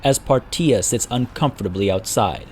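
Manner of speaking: measured dramatic fantasy narration; storyteller's voice with deliberate pauses; story narration. A narrator's reading. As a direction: tell it like an epic war chronicle. Narrates a fantasy war tale.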